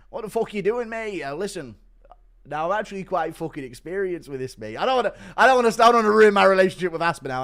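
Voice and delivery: lightly voiced British fighter; a hint of a brash British mate; Aspinall impression. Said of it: "Impression of Bully Aspinall reacting".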